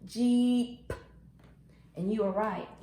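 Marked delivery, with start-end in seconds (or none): 0.1-0.9 JEEP with the final P popped separately; teacher isolating the P at the end of Jeep; ending sound shown. Shown as a demonstration. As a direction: draw out Jeep and set off its last P. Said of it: "that is the ending sound".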